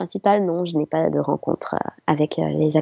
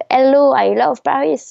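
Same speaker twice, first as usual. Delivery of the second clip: lightly mimicked star hailing the crowd, pitched up; a higher mock stage hello; lightly imitated actor greeting; 7 semitones higher, 4 dB louder than usual. Actor trying to greet screaming young fans, light imitation. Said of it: "je crois qu'il a dit".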